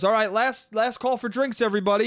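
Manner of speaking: mild mock shout to the whole room; retold shout. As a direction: announce it like a barman at closing. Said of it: "He shouts that".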